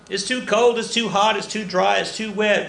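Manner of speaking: high, loud mock complaint about the weather; hammed-up list of weather gripes; mock whining. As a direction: whine it like a fed-up farmer, pitched high.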